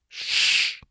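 sharp unvoiced shush; an urgent, whispered hush; hissed hush. A narrator's reading. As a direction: hiss for silence. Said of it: "he hissed through the apertures".

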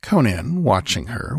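ordinary delivery

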